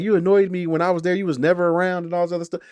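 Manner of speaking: imitating a sulky young woman's complaint; mock whiny girl. Character quoted: "she was like.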